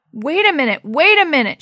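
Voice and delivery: loud, high yell up a shaft. Acted. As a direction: shout it up to someone above. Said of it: "she yelled up to Dee Dee".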